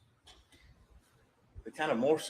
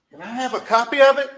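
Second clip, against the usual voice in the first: retold demand; 9 semitones higher, 13 dB louder than usual. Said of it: "I said".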